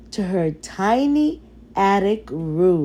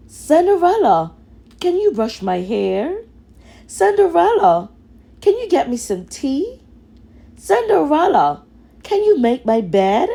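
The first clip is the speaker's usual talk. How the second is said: higher, louder and fast calls of her name; bossy shouted orders; 6 semitones higher, 4 dB louder, faster than usual. Acted. Stepsisters shout orders at Cinderella, higher, louder and fast. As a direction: bark demands at her, one after another. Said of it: "shouted orders at her".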